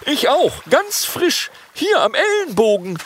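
very high, loud long-nosed dragon call. Acted. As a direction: squeak it out eagerly. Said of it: "ruft ein Langnasendrache".

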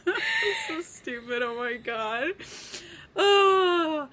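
words dissolving into high, slow giggles; real giggle fit; laughing. Real, not acted. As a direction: laugh through the punchline. Cracking up at own joke.

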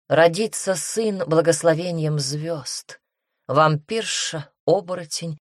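measured verse reading, falling away at line ends; soft prophecy recital. A narrator's reading. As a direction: recite a prophecy gently, with pauses between the lines. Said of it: "Правитель подземного мира говорил мягко".

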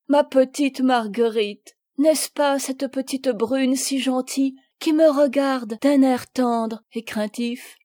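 father beaming with recognition; delighted. Acted. Returning father speaking of his daughter, delighted.

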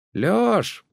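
high call over the fence; calling across the fence. Acted. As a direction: shout his name from the next yard. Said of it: "закричали из-за забора".

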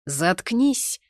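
mildly acted irritated snap; snapping. A narrator's reading. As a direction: cut him off with a touch of anger. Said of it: "огрызнулся и на него Гога".

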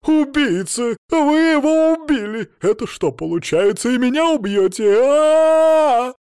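high, loud terrified screeching ending in a scream; shrieking. Acted. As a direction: screech in panic. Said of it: "снова начала верещать".

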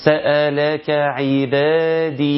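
عبادي slow with the final long i held; slow recitation holding the ya; held madd. Shown as a demonstration. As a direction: stretch the ya of عبادي. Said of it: "بحافظ على المد اللي بالياء".

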